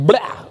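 mock outburst noise; frustrated blurted "blah". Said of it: "they're so frustrated".

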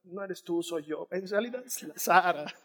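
soft, sheepish brush-off; hammed-up awkward breakup line; mock breakup. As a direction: let her down gently like a breakup. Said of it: "le dice".

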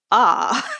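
short, light imitated gasp of awe; mock crowd "ah". Tour guide mimicking her group at the hill, mock "ah". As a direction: let out a playful "ah" like onlookers. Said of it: "everybody going".

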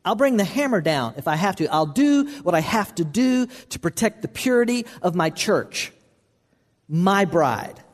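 lightly voiced stern Lord; stern voice of Jesus. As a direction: warn like a protective bridegroom. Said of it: "And Jesus says".

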